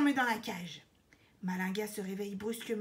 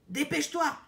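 high, loud urging; insistent; 6 semitones higher, 6 dB louder than usual. A narrator's reading. Parrot hurrying the queen to answer, insistent. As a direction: press impatiently for an answer. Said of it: "insiste Père Cao".

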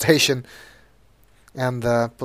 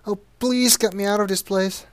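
much higher, sugary pleading voice; pleading hooker; 8 semitones higher than usual. Acted. Sweet Cheeks begs Sonny from her cell, high and sugary. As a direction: coo at him to win his help.

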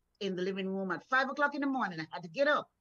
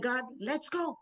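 eager call to go; 3 semitones higher than usual. Retold or imitated. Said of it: "that's exactly how I said it".

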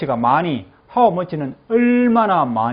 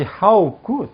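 slow model for repeating; 5 semitones higher than usual. Shown as a demonstration. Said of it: "다 같이".

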